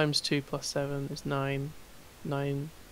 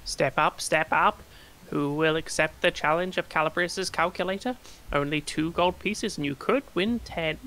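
calling out. Acted. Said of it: "The man calls out".

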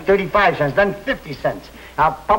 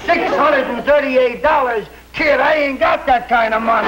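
shouting; 5 semitones higher than usual. Acted. Father shouts about money.

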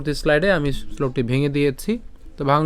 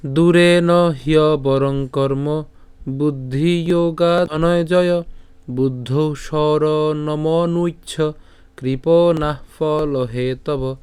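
slow, drawn-out chanting of the verse; slow Sanskrit recitation; much slower than usual. Shown as a demonstration. Teacher reciting the Sanskrit verse to students, slow and chanted. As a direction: recite each word slowly and evenly. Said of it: "শুরু করে যদি পাঠ করি".

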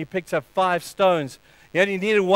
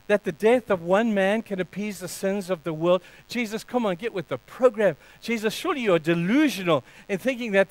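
raised, incredulous taunting; Satan; 4 semitones higher than usual. Acted. Satan shames Jesus for his plan, scoffing. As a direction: talk him out of it, scoffing. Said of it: "the words of shame from Satan saying".

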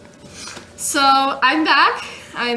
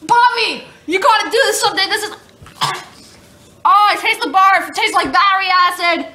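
disgusted excitement; 5 semitones higher than usual. Real, not acted. Disgusted, laughing after tasting.

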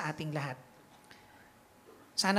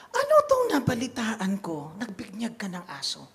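angry bishop; 2 semitones higher than usual. Retold or imitated. Bishop to the priest, mild mock anger. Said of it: "galit na galit siya".

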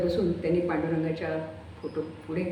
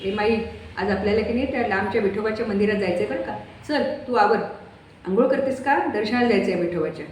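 cheerful urging; 3 semitones higher than usual. Acted. Son cheerfully urges Mai to get ready for the temple. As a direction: hurry her along happily.

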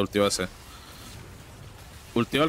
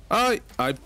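high frightened little cries; scared yelps; 10 semitones higher than usual. Real, not acted. Player spooked by enemies, frightened high yelps. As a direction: squeal in real fright. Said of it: "Me, me asusté".

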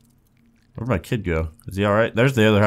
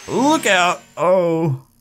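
high, alarmed warning cry; shouted warning; 10 semitones higher, much slower than usual. Real, not acted. Player seeing danger ahead, alarmed warning. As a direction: call out high as the crash comes.

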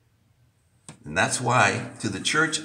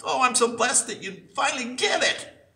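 higher, delighted reply; joyful voice of the Lord; 9 semitones higher than usual. Retold or imitated. Preacher voicing the Lord's delighted answer, lightly raised. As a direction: welcome them gladly, lifted voice. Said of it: "And he says".

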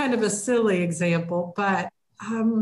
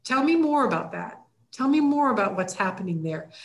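inviting ask. Shown as a demonstration. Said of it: "try my statement".

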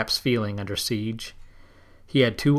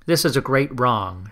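raised voice, a touch louder; a hint of a shout of protest; mild shout; 2 semitones higher, 4 dB louder than usual. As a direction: call out the protest with some force. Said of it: "shouted Oshoga".

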